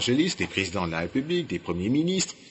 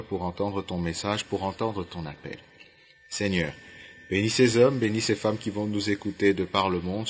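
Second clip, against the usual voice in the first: prière; 2 semitones lower, 3 dB quieter than usual. Real, not acted. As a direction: lead listeners in an earnest, subdued prayer. Mène une prière. (prière recueillie, posée)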